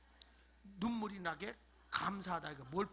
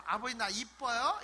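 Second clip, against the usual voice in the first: playful aegyo; 4 dB louder than usual. Acted. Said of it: "이러면서 애교 떨어봐".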